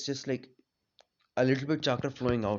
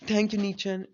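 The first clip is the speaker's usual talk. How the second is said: higher-pitched happy thanks; 6 semitones higher than usual. Retold or imitated. Grateful child thanking an elder brother for a gift, happily. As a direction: pipe up with pleased thanks. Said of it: "Naoto was very happy".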